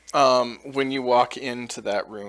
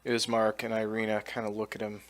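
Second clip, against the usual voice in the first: usual speaking voice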